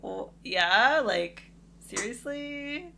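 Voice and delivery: drawn-out, rising mock disbelief; incredulous reply. Bridesmaid retelling her reply to the bride's text, incredulous. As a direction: stretch it upward, as if the question is absurd.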